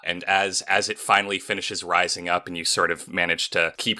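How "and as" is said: ordinary delivery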